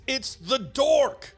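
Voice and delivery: high, drawn-out cry of alarm; shocked mock scream. A narrator's reading. Shocked Frizzard cuts Dork off, slow high mock scream. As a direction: stretch each word in dramatic shock. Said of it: "shocked Frizzard who screams".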